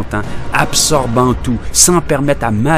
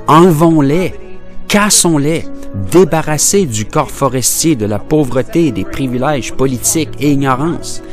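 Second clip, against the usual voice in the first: raised, higher-pitched exhortation; rallying call; 5 semitones higher than usual. Acted. Educator calling to break the chains, impassioned urging. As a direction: urge the crowd to act.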